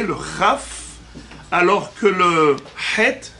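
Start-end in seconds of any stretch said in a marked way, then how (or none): 0.0-0.8 "Chaf" with a scraped kh from the palate; "Chaf" opened on a raspy kh; palatal Chaf. Shown as a demonstration. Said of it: "ça vient du palais". 3.0-3.3 "Het" with an h from the throat; "Het" with an unscraped guttural h. Shown as a demonstration. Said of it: "c'est guttural".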